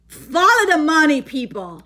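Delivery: fired up about the numbers; getting carried away with excitement; real excitement. Real, not acted. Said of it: "I'm getting excited like if it's my money".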